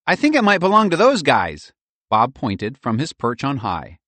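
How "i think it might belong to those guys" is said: squirrel voice. A narrator's reading. Bob squirrel voice.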